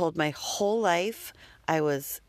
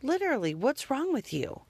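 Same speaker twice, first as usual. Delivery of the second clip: exasperated mother; 8 semitones higher than usual. Retold or imitated. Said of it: "And I got so mad".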